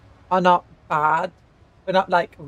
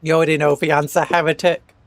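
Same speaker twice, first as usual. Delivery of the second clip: menacing threat; 5 dB louder than usual. Acted. Character threat, fast.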